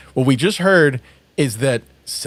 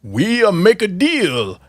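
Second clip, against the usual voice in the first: Senzo's movie line; 3 semitones higher than usual. Retold or imitated. Co-host quoting Senzo's line to the kid, lightly acted. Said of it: "Senzo says to the kid".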